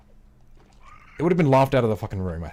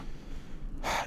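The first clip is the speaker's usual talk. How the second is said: exasperated sigh; 13 dB quieter than usual. Real, not acted. Exasperated about platformer difficulty.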